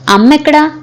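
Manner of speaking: sudden high question; surprised high call; asking where mother is. A narrator's reading. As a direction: voice jumps up, looking for his mother. Son asks where mother is.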